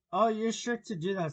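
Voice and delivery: lightly voiced sly grinning cat, amused; a hint of a grinning cat, unhurried; Cheshire cat voice. Cat teases Alice.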